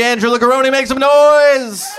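rally the room with a big shout. Real, not acted. Host calling crowd to vote.

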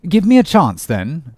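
lightly teasing, easy-going; a touch of amused patience; good-humoured. Acted. Englishman answers Ahab's impatience, good-humoured. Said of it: "said the Englishman good-humouredly".

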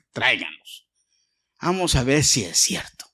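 "Tráiganlos" in a deep regal tone; low royal command. Retold or imitated. King repeats order to bring them.

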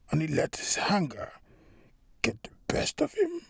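quiet, fading to a whisper; soft reassurance. A narrator's reading. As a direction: hush it to calm an angry boss. Benedict soothing Mike quietly.

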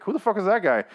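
high, incredulous "who is that"; baffled outburst. Retold or imitated. Viewer baffled by a stranger at dinner, high incredulous outburst. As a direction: blurt it out in total confusion. Reacting to an unknown character.

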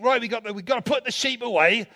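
lightly put-on Somerset farmer-pirate accent; a touch of hammed-up Somerset accent; slight Somerset pirate accent. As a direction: slip into a West Country pirate voice, Somerset style. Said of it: "Somerset pirate accent".

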